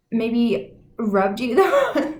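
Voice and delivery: words broken by a laugh, slowed; amused, cracking up mid-sentence; laughing through it. Real, not acted. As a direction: giggle as you say it. Laughs mid-phrase, then repeats.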